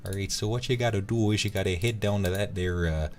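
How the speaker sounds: folksy Minnesotan accent giving directions; hesitant, chatty mock Minnesotan. Shown as a demonstration. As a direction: put on a homely Minnesotan accent. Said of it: "I sound like I'm from Minnesota".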